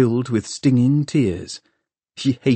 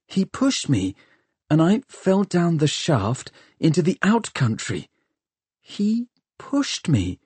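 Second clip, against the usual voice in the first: higher, halting voice working it out; a touch of dazed disbelief, pitched up; lightly voiced shocked youth; 6 semitones higher than usual. A narrator's reading. Tom reasons out his fall, mildly dazed.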